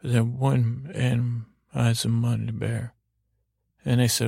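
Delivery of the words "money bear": lightly mumbled, garbled bear words; Mumble Bear. Acted. Bear answers the storyteller's question, mumbling. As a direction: say it as an indistinct mumble. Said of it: "I'm mumbling to Mumble Bear".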